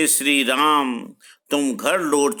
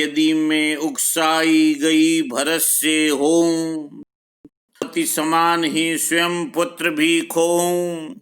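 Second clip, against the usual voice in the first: verse recitation; 2 semitones higher than usual. Acted. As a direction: recite evenly, stretching the words to the metre.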